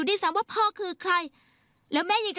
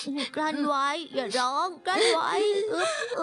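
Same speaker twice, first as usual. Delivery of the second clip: sniffling, fighting not to cry; girl telling herself not to cry, sniffling; holding back tears. Acted. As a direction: choke back the sobs.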